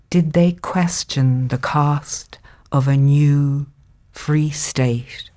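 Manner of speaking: slow, measured poem recital; poetry reading. Acted. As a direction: read it like a poem.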